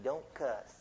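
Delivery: mock the goody-goody who only says "don't cuss"; prim mocking scold. Preacher mocking a prissy rule-keeper, softly. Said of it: "Golly gee".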